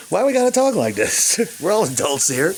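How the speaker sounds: high, incredulous complaint; exasperated. Real, not acted. Vlogger ranting at YouTube censorship, exasperated. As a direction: throw up your hands at it.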